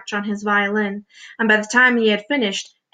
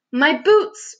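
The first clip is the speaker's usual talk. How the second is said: high-pitched outburst of dismay; dismayed cry; 6 semitones higher, 4 dB louder than usual. A narrator's reading. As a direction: wail over a precious loss. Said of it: "cried the centipede".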